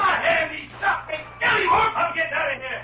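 pained shout. Acted. Outlaw shot in the hand.

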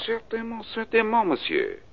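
eager French "Certainement" pitched high; French accent. Acted. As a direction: gush "certainement" the French way, no final t. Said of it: "Gonna try out your French accent?".

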